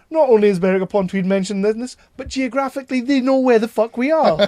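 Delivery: astonished, building to a high loud peak; excited disbelief. Retold or imitated. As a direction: marvel that they got the geography right. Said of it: "I was sitting there going".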